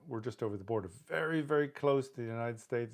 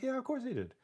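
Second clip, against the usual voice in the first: mock matter-of-fact. Voicing friend's casual answer.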